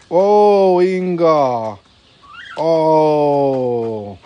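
delighted exclamation. Real, not acted. Delighted at the swan.

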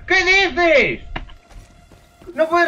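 high, loud what-are-you-saying outcry; disbelieving shout. Real, not acted. Gamer outraged at an enemy's trick, high loud disbelief.

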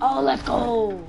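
slow, loud hype; hyped. Real, not acted. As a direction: stretch it out excited. Hyped reaction to good loot.

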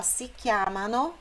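SI CHIAMANO with the final NO sounded; full form. Shown as a demonstration. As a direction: give chiamano all its syllables. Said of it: "aqui poderia ser". (si chiamano completo, com o no final)

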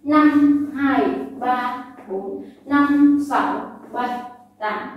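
brisk beat counting; counting workout reps. Shown as a demonstration. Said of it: "Nhanh hơn một chút nhé".

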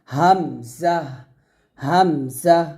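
হাম জাহ split into two beats; syllable by syllable: হাম then জাহ; spelled-out hamzah. Shown as a demonstration. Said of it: "এরকম হবে".

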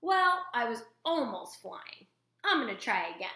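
put-on a small child not giving up; lightly voiced gosling; insistent gosling.

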